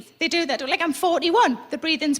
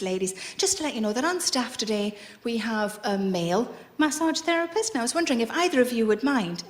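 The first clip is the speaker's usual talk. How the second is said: mock receptionist; 7 semitones lower, 7 dB quieter than usual. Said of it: "the woman came out and she said".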